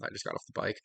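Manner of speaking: breathless, nearly voiceless; panting after cycling; out of breath. Real, not acted. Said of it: "sorry, I'm out of breath".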